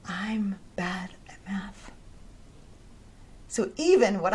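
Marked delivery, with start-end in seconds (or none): 0.1-1.9 slow whispered aside; whispered self-doubt. Retold or imitated. Teen self dismissing her score, whispering slowly. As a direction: breathe it out as a sad little secret.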